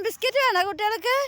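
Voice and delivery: quick, high sing-song offer of biscuits; bright quick pet-talk offer, rising on വേണോ; coaxing pet talk. Real, not acted. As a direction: coax the pets with a treat.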